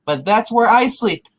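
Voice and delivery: slow, high mock complaint; slow put-out alien impression; imitated protesting alien. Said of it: "He's like".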